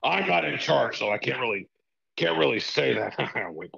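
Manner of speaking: lightly voiced arrogant boss; a hint of a smug, scheming tycoon; Vince McMahon impression. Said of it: "Mister McMahon".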